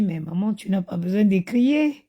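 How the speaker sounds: imitated child, unruffled and gentle; lightly mocked serene little voice; very zen voice. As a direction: calmly soothe an angry mother, as a kid would. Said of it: "une voix très zen".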